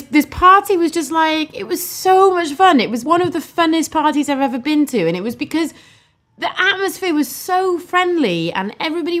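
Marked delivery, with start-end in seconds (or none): 0.0-7.8 real excitement building up in pitch; excited. Real, not acted. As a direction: rave about the best party ever. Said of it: "excited about the party".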